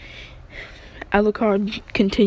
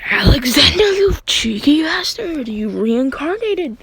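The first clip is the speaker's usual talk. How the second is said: excited shout; 6 semitones higher, 7 dB louder than usual. Retold or imitated. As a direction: bellow the name with joyous surprise. Character's excited recognition shout.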